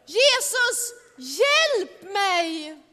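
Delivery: a sinking man calling out; cry for help. Acted. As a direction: scream for rescue while sinking. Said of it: "Men Petrus skrek".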